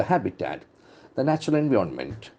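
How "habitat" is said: habitat with the beat on "ha"; stress on first syllable. Shown as a demonstration. Teacher modelling the word for students, stress on "ha". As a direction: say habitat, leaning on "ha". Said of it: "The accent falls from the first syllable".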